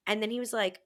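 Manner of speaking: ordinary talk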